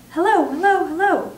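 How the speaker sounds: high, loud parrot call; loud, clear parrot voice. A narrator's reading. Hidden parrot heard across the hall, loud and clear. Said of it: "came the voice again".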